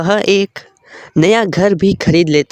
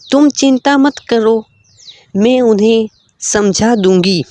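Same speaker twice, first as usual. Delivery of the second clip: put-on higher girlish voice, earnest; young woman reassuring; 4 semitones higher than usual. Lakshmi reassuring the poor prince, higher earnest voice. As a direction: reassure him, higher and sincere.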